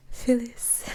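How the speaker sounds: Phyllis run together quickly so it blurs from Phil is; Phyllis, said very fast. Shown as a demonstration. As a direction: rush Phyllis in one quick breath. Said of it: "if you say it very fast".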